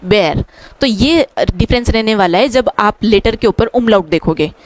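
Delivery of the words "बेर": बेर said with an open e; German word. Shown as a demonstration. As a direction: say बेर clearly. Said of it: "इसको हम बोलेंगे". (German "बेर" स्पष्ट उच्चारण)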